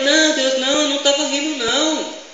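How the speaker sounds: Sara. Retold or imitated. Sara caught laughing tries to fool God, mock nervous denial. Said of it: "Sara já ficou com medo".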